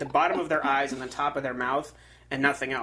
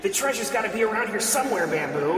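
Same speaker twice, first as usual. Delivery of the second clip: Scooby-Doo cave; 6 semitones higher than usual. Pretend. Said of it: "Scooby-Doo".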